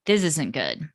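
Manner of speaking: quiet, even and kind; calm compassionate parent voice; calm, soft parent talk. Retold or imitated. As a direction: say it gently, with no edge. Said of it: "you just say it calmly".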